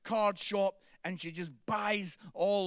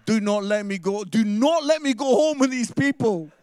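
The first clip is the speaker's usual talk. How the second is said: louder, mock desperate plea for help; pleading dog voice; 2 semitones higher, 13 dB louder than usual. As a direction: beg like a trapped dog, hammed up. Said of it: "eyes were looking at me going".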